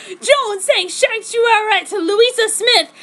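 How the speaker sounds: loud, high, slow demon roar; hammed-up monster roar. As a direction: snarl it like raging hags. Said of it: "They roared at me with a nasty primal rage".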